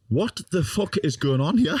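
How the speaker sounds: high, slow, incredulous question; retold bewilderment. Grandson facing nana just after the slap, bewildered.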